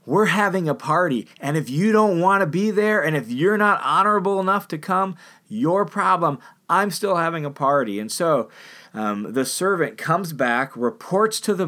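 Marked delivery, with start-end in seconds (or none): 0.0-8.0 defiant host. Retold or imitated. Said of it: "the host is like".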